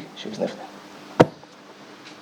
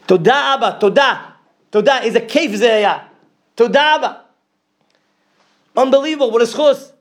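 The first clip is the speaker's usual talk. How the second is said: high, loud cries of thanks; ecstatic thanks; 9 semitones higher, 6 dB louder than usual. Retold or imitated. Grieving father crying thanks to God, high and loud. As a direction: cry out thanks to Father in heaven. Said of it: "he said".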